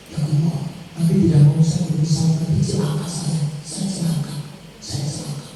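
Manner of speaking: low, fading mock-despairing plea; retold tearful lament. Weeping companion lamenting to God that the Prophet ignores him, tearful and fading. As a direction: sink into a soft, understated lament. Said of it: "Nangis sahabat".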